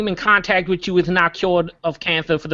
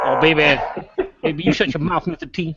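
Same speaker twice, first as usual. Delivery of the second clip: cartoon buffalo voice; 2 semitones lower than usual. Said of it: "in a cartoon buffalo voice".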